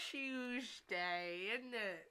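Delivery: light mock British accent. Shown as a demonstration. Demonstrating the chosen villain accent, British accent. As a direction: put on colloquial British, drawn out. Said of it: "Tuesday British accent".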